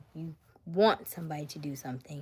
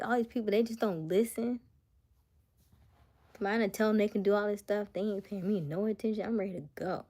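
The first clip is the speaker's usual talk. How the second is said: raised, fed-up comic rant; mock exasperation; 4 semitones higher, 5 dB louder, faster than usual. Jesus complaining nobody listens, mock exasperated rant. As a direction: gripe like you're done with these people.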